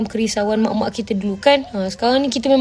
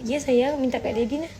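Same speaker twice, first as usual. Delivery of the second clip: soft and gentle, much quieter; 3 semitones higher, 6 dB quieter than usual. Real, not acted. Mother turning from the stream to softly tell her child to ask daddy. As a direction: hush it sweetly to the little one.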